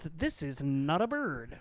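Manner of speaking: deadpan hint. Retold or imitated. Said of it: "He goes".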